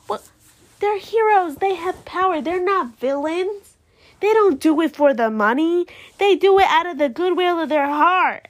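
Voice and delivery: worked-up fan rebuttal; indignant defence. Real, not acted. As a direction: argue hotly for the heroes. Defending heroes against the banker.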